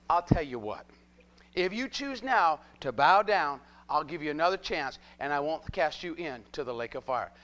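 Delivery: low, measured king's ultimatum; Nebuchadnezzar's offer. Acted. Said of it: "Nebuchadnezzar spake and said unto them".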